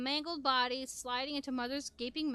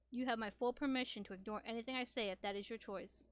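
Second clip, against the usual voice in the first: calm Father voice; 3 semitones lower, 3 dB quieter than usual. Acted. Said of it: "His calming voice".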